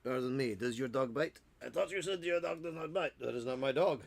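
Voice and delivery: put-on comic dialogue in silly French accent; mock French accent. Asking whether the dog bites, mock French accent. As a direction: play both sides in mock French.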